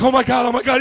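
loud mock crying fan; mock tearful gushing. Preacher mimics Ricky meeting a star, mock tearful. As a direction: imitate an overwhelmed fan near tears. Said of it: "He's, like, crying".

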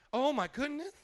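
lightly voiced happy mother; mild mock gasp of joy; mom voice. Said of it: "That's how my mom would talk".

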